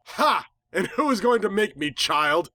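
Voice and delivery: high mocking villain sneer; villain taunting a young pony. A narrator's reading. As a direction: look down on the child as you say it. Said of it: "she sneered".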